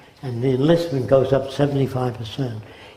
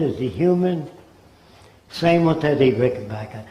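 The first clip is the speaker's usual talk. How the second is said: normal talking voice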